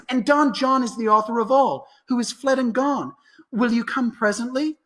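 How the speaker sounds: urgent news. Acted. Messenger brings urgent news.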